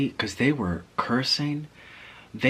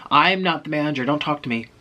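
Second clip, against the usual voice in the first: higher, louder brusque dismissal; shooing away; 5 semitones higher, 3 dB louder than usual. Retold or imitated. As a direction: imitate a clerk shooing guests out. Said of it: "They shooed everyone".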